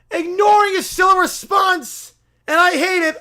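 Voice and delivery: pushy self-proclaimed prophet bellowing; loud holy crusader voice; zealous preacher. Acted. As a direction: barge in demanding converts. Preacher resents being ignored.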